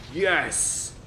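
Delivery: high triumphant yes; excited cheer. Real, not acted. Winning at the last second.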